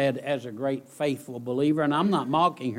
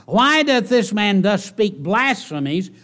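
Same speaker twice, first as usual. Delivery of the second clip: thundering reading; 10 semitones higher, 8 dB louder than usual. Acted. Preacher reading scribes' objection, thundering loud. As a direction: preach it at full force.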